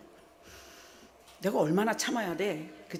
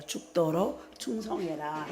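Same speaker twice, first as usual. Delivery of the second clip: 주님의 명령 인용; 5 dB quieter, slower than usual. Retold or imitated. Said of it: "주님은 뭐라 그래요?".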